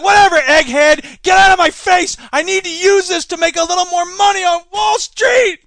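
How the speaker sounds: loud, high, shouting bully; pushy trader. Acted. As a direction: shove the nerds aside. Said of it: "They're like".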